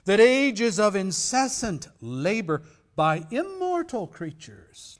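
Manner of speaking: very loud and slow, declaimed; ghost's lament. Acted. Ghost of Marley crying out to Scrooge, loud and slow. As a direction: wail it like a chained ghost.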